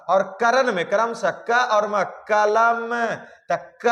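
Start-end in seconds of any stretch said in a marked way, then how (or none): 2.3-3.9 कलम with क punched higher; stress on क. Shown as a demonstration. Teacher showing students syllable stress in कलम, stressed क. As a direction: lean hard on the क of कलम. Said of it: "पर ज्यादा दिया जा रहा".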